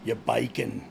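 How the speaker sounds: trying out a British accent; attempted British accent. Shown as a demonstration. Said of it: "I don't know how to say bacon in a British accent".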